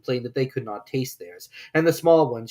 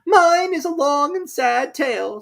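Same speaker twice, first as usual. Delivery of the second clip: high, slow, loud mournful mouse; sighing sad tale; 8 dB louder, slower than usual. Acted. Mouse sighing to Alice, high and slow. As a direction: sigh it out slowly.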